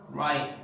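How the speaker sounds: "right" cut off before the T releases; unreleased T in "right"; stop T. Shown as a demonstration. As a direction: swallow the final T in "right". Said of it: "they stop".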